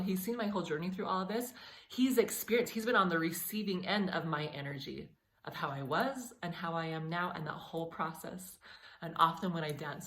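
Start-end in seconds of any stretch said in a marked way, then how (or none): 0.0-8.6 emotional. Real, not acted. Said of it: "I'm getting a little emotional".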